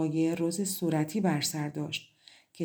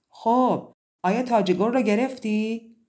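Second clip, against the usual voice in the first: higher, louder eager call; eager shout; 4 semitones higher, 6 dB louder than usual. A narrator's reading. Mother rushing out to ask her daughter, eager shout. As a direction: call out for the news. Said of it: "فریاد زد".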